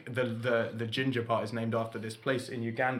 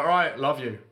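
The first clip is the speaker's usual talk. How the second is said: louder, deliberate retold concession; giving in, said properly; 2 semitones higher, 5 dB louder than usual. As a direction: imitate a resigned but clearer reply. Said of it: "say it properly".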